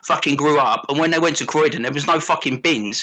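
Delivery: lightly voiced South London geezer ranting; a hint of a London lad mouthing off, bruv; mild South London tirade at a mate. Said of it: "South London James voice".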